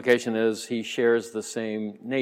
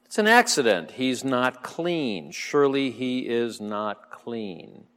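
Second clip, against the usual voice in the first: musing to himself. Retold or imitated. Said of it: "for he thought".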